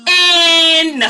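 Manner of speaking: high, loud, slow and innocent. Real, not acted. Vlogger behaving sweetly for her mother, high and innocent. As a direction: play the angel for mom. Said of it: "I gotta behave".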